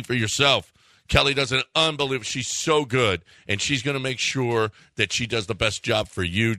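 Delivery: upbeat radio host endorsement; live ad read. Acted. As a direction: sell it like a live radio sponsor spot. Host reads a live sponsor ad.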